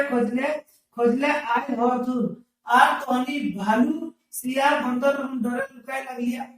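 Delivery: slow sing-song text reading; lilting recital of the text; reading aloud. Acted. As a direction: chant the passage like a class reader. Reads the dialect text aloud.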